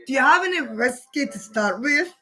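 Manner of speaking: "whiskey" as "weski" in mock Scots; second go at the Scots whiskey line; put-on Scottish accent. Shown as a demonstration. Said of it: "I'm putting up the accent there".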